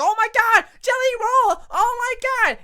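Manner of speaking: mock excited commentator. Mocking Michael Cole's call, hammed-up excited commentator. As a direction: ham up the announcer losing his mind. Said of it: "Michael Cole is going like".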